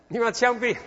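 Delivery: 你们要枪毙 in Cantonese-accented Mandarin, high and loud. Shown as a demonstration. Pastor repeats the Cantonese-accented phrase to congregation, high. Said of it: "什么意思啊？".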